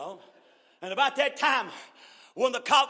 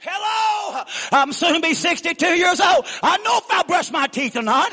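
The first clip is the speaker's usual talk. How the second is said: exasperated protest; 3 semitones higher than usual. Retold or imitated. Mock exasperation at wife's fussing.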